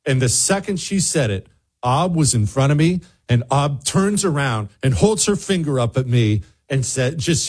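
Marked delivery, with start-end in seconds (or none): none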